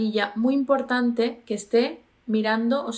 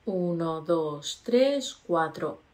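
slow counting; 4 semitones lower, slower than usual. Shown as a demonstration. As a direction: count to four slowly, one number at a time. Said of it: "Y aguanto".

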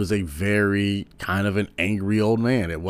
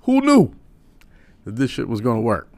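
put-on much higher and louder, an incredulous old-timer; Rodney Dangerfield impression; 7 semitones higher, 8 dB louder than usual. Old comic admits to Eddie in the bathroom, high and surprised. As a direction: squeak out a baffled who-knew. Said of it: "Rodney Dangerfield was like".

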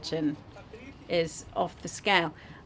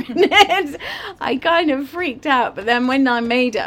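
excited; 6 semitones higher, 8 dB louder than usual. Real, not acted. Stunned by the sugar.

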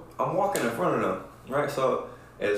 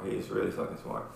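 whispered aside; 13 semitones lower, 7 dB quieter than usual. Real, not acted. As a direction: whisper "He's really fucking smart" low and breathless. Repeats praise, second time hushed.

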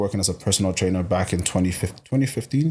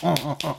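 quick, higher-pitched "uh uh uh"; mock energetic noises; 7 semitones higher, faster than usual. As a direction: imitate rapid-fire energy in bursts. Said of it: "They don't talk fast".

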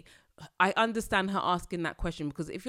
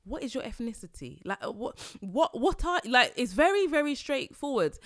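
exasperated inner voice; 6 semitones higher than usual. Retold or imitated. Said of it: "I'm like".

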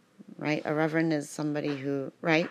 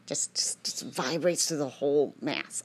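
whisper; 3 semitones lower than usual. Real, not acted.

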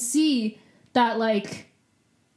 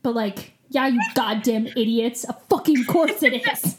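snarky rant. Pretend. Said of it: "You just summed up my entire personality".

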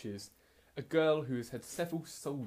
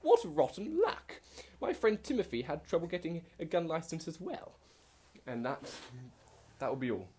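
posh twat voice; 4 semitones higher than usual. Acted. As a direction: play the haughty posh toff. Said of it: "the, the posh twat".

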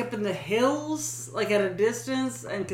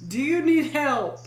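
mildly raised, higher call; 5 semitones higher than usual. Retold or imitated. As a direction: lightly re-enact calling out to a stranger. Re-enacts calling from the driveway.

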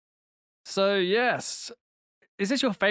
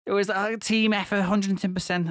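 a lightly voiced post-match footballer, half laughing; footballer cliché. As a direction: rattle off the clichés like a player after the game. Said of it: "as if you are a footballer being asked".

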